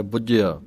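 ਬੁੱਝਿਆ with a tight, pressed addak; firm doubled j. Shown as a demonstration. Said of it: "ਕਸ ਕੇ ਪਾਠ ਬੋਲਣਾ ਹੈ".

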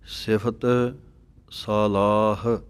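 slow, ਸਾਲਾਹ with a long first a. Shown as a demonstration. Teacher models ਸਾਲਾਹ. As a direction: say ਸਾਲਾਹ, not ਸਲਾਹਾ. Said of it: "ਇਸ ਤਰ੍ਹਾਂ ਸਾਲਾਹ ਪਾਠ ਪੜ੍ਹਨਾ ਹੈ".

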